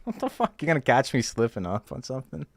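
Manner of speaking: high-pitched incredulous reaction, retold; baffled disbelief. Retelling baffled reaction to guard's suspicion.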